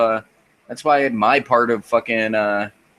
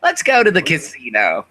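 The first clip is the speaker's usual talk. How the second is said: high-pitched old Jewish lady impression; hammed-up Jewish grandma; old Jewish woman; 5 semitones higher, 3 dB louder than usual. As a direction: suggest an outing in a high granny voice. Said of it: "sound like an old Jewish woman".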